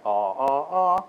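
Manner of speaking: sung ah stepping up in pitch; pitch-change demo. Shown as a demonstration. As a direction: copy the clip's pure pitch steps on ah. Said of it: "I can do that".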